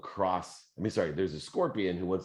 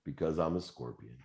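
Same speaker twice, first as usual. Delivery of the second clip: scorpion's answer; 3 dB quieter than usual. Acted. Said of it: "the scorpion looks at him and says".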